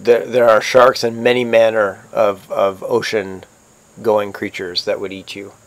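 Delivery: slow, lightly voiced ominous counsel; first mate's grave warning. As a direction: let the warning out slowly, softening toward the end.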